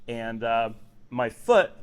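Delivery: talking with food in mouth; words muffled by a mouthful; mouth full. Real, not acted. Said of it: "sorry, I've got something in my mouth".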